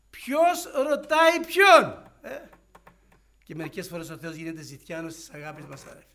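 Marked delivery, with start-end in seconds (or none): 0.1-2.5 much higher, louder, drawn out slowly in disbelief; stunned: who is asking whom?; incredulous outcry. Acted. Incredulous imagined Peter. (έκπληκτη κραυγή απορίας)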